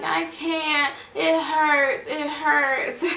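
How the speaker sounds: pained protest. Retold or imitated. Mother answering doctors that she can't keep still. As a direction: beg through the pain, half-replayed. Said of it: "I'm like".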